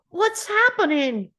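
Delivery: frightened breathless whisper; hushed, scared whisper. Acted. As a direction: whisper it in panic. Panicked kids in flooding pipes.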